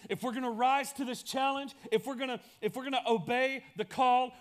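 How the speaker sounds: full-force preacher's build; rising preaching. Acted. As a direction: drive the repeated lines home with force.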